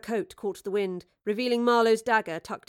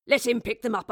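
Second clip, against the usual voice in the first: grumbled; 3 semitones higher, 5 dB louder than usual. Acted. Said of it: "Charles grumbled".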